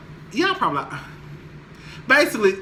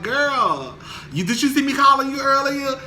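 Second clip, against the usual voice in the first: imitating nosy friend; 9 semitones higher than usual. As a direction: play the friend on the phone, high and pushy. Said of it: "and it's just like".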